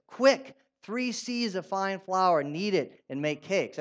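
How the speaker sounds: slow, deliberate read of the verse; slow scripture reading. Shown as a demonstration. Pastor reading the ESV verse aloud to the congregation, slow and deliberate. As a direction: lay out each word of the verse slowly. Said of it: "let me highlight the E S V".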